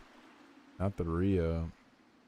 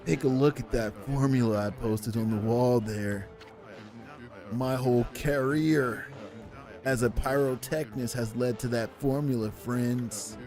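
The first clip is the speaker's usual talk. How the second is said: surfer dude. Acted. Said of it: "that broed out surfer dude voice".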